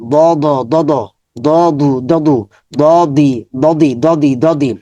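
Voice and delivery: clear, repeated Arabic syllables, each one said crisply; syllable drill. Shown as a demonstration. Teacher drills students on letter sounds, crisp repetition. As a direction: sound out তি again and again for the class. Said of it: "এভাবে সবগুলো হরফ".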